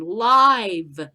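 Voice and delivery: live punched out loud; loud burst on live; shouted live. Shown as a demonstration. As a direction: slam the word live in outrage.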